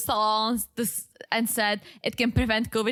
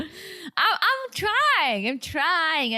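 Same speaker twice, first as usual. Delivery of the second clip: laughing; 6 semitones higher, much slower than usual. Real, not acted. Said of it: "Let it out".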